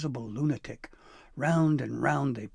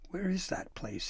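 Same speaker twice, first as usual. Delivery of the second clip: eager question; 8 semitones higher, 4 dB quieter than usual. Acted. Eager boy asks about trail.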